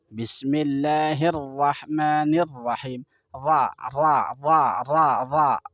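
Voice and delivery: ra diulang tanpa bibir bergerak; ra bibir diam. Shown as a demonstration. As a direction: latih ra dengan bibir ditahan. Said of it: "Sama sekali nggak bergerak". (ra datar, bibir sama sekali tidak bergerak)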